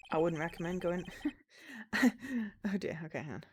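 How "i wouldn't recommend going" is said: American accent slipping in; accidental American accent. Shown as a demonstration. Reading the detective's line, slipping into American. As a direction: start the line in American by mistake. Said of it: "why am I going American".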